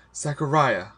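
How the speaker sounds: high, loud blurt; sudden urgent cry of a name. A narrator's reading. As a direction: burst out with the name. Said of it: "I blurted out".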